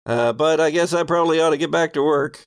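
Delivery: lightly voiced folksy working man; a hint of a shy, polite worker; folksy guard. GM as Walter politely ending the chat, lightly voiced. GM voicing Walter taking leave.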